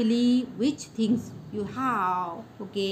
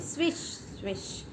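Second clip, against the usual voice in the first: swish sound; 7 dB quieter than usual. Shown as a demonstration. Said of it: "going side to side".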